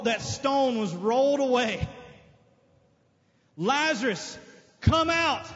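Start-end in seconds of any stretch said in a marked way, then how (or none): 3.6-5.5 shouted summons; commanding call. Acted. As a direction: summon him with authority. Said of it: "When he heard as that".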